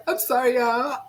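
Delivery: real tearful apology; crying. Real, not acted. Host saying sorry to viewers for breaking down, crying. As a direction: apologize while trying to hold back tears. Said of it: "I was not gonna cry".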